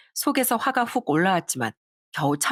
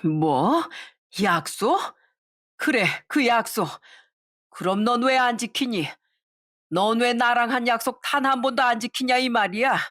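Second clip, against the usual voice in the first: higher, lightly voiced mother firing back; indignant retort; 5 semitones higher than usual. Mother retorting to daughter-in-law, mildly indignant. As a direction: throw the word back at her.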